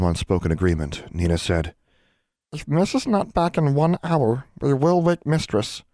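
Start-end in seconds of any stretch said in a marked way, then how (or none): 2.5-5.8 high squeaky elf, slow at the end; grim house elf. Acted. House elf Nina setting a one-hour deadline, grim and squeaky. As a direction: lay down terms like a solemn elf. Elves set a condition.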